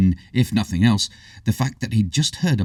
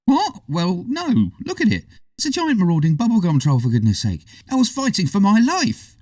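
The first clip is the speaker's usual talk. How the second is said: put-on high, pleading young boy; high boyish protest, begging; 12 semitones higher, 3 dB louder than usual. A narrator's reading. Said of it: "pleaded the boy".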